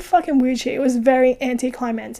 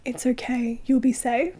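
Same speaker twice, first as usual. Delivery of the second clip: soothing parent; 6 dB quieter than usual. Retold or imitated.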